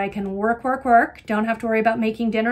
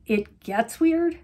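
incredulous question; 3 semitones higher, much slower than usual. Retold or imitated. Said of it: "I'm like".

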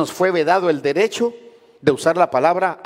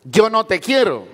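dismissive; 5 semitones higher, 4 dB louder than usual. Retold or imitated. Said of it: "La mujer quiere oír esa expresión".

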